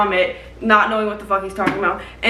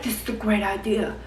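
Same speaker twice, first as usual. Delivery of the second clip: mock cheerful plan; 3 dB quieter than usual. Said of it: "He's like".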